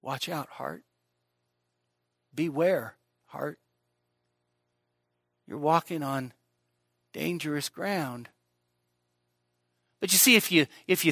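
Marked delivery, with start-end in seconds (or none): 0.0-0.8 hushed warning. Acted. Preacher murmuring a warning to his heart, hushed. 2.3-3.6 hushed beware. Acted. Preacher softly warning his own heart, hushed. 5.5-8.3 soft, slowing ominous line; hushed warning. Acted. Preacher warning his heart it walks dangerous ground, hushed.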